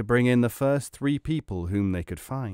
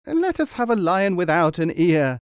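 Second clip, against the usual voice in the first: gasped; 7 semitones higher, 4 dB louder than usual. A narrator's reading. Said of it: "gasped his patient".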